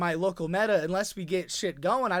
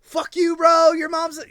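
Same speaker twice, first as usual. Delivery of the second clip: heated outburst; 9 semitones higher, 8 dB louder than usual. Retold or imitated. The heat of a moment.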